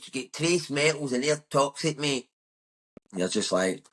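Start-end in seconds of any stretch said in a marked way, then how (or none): 0.0-2.3 higher mocking voice of a social media know-it-all. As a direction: send up the smug internet expert.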